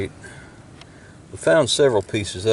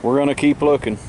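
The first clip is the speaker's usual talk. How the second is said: loud, raised voice outdoors; shouting over wind; 5 dB louder than usual. Real, not acted. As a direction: project over gusting wind. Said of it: "if you can hear me over the wind".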